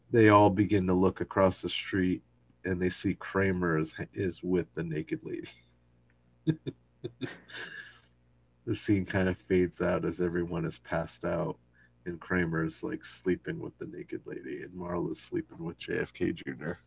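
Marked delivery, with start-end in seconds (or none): none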